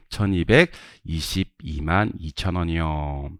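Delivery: slow, measured read-out of a figure; slow drill reading. Shown as a demonstration. Teacher leads students in reading amounts, slow drill reading. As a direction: read the amount slowly, stretching each chunk.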